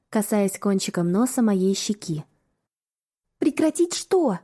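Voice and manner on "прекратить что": higher, slow nervous question; breathless question. Acted. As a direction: ask it flustered and slow. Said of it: "сказала я".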